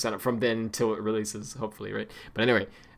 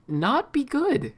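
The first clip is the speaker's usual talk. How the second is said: mock reluctance; 13 semitones higher, much slower than usual. Mock-reluctant reveal of bad news.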